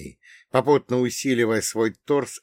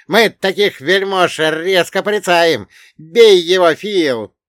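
high, very loud egging-on; bellowing dwarf; 8 semitones higher, 10 dB louder, slower than usual. Acted. Dwarf cheering Phil on in the fight, high bellow. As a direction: yell high, urging a friend on. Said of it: "заорал карлик".

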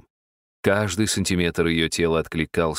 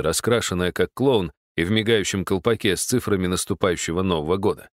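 plain reading voice

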